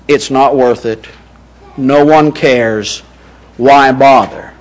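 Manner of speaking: low, softened words of giving up; resigned mock quote. Voices someone giving up.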